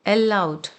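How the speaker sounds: अलाउड opening on a clear 'el', 'el-laud'; respelled aloud. Shown as a demonstration. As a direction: say अलाउड slowly with an E-like first vowel. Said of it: "यहाँ पे अलाउड नहीं पढ़ेंगे".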